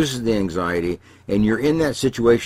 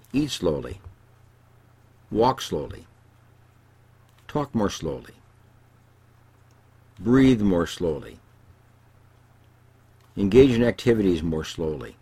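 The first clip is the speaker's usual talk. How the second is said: calm instruction. Retold or imitated. Therapist retells his calming advice.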